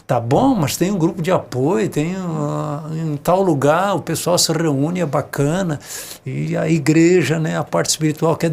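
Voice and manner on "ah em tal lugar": ordinary talk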